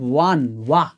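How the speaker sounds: ওয়ান then cut down to ওয়া, isolating the ওয়া sound; teacher isolating the opening ওয়া for pupils; pronunciation demo. Shown as a demonstration. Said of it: "এদের উচ্চারণ করো তো দেখো".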